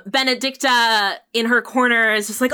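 usual speaking voice

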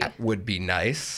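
low, slow wistful sigh; sad voice. Pretend. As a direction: sigh it out glumly. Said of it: "put on my sad voice".

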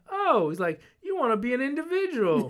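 Southern sergeant mocking the ankle socks, laughing. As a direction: tease him in the sergeant's Southern voice. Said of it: "southern draw".

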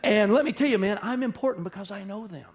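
hammed-up bragging about famous friends; mock name-dropper. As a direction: lampoon a proud name-dropper. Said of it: "we'll try to name drop".

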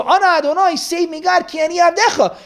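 high, urgent plea to God; pleading prayer. Retold or imitated. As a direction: beg God to save you.

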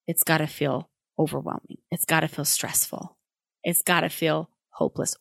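put-on gently validate the child's feelings, voice settling a little; empathizing. Parent to a child facing a messy room, empathizing. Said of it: "empathize with them about whatever feelings".

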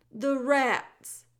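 put-on loud, booming old jailer who speaks of himself by name; the jailer Gregory greeting Meg in a big theatrical voice. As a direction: boom it out like a grand old jailer. Gregory warns.

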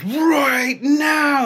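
warrior shout. Acted. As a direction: bellow it as the impatient warrior. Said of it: "And he says".

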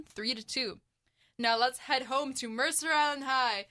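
upbeat radio sports update; sports news read. Acted. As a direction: read the scores like a radio anchor.

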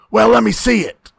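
lightly mimicked change of heart; a hint of the wrestler's put-on voice; Tommy. Friend mimicking the wrestler giving in, lightly put-on voice. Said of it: "and you go".

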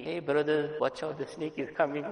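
mock a too-gentle warning; soft sweet warning. Shown as a demonstration. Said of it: "I can't now say softly, sweetly".

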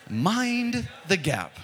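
very slow, high-pitched British announcer; British accent. Shown as a demonstration. Preacher repeating the Tube warning for the congregation, British accent. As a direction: stretch out MIND in a put-on British voice. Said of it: "say it in a British accent".

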